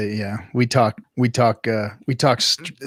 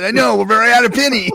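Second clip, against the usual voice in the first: fast excited jab; 10 semitones higher, 6 dB louder, much faster than usual. Retold or imitated. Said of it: "I said".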